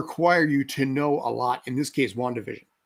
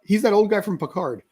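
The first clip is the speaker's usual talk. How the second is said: feigned cluelessness with a raised pitch; mock ignorance, sarcastic; 5 semitones higher than usual. Geek pretends not to know the old Picard actor, sarcastically clueless. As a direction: play dumb, puzzling it out sarcastically. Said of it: "I'm being sarcastic".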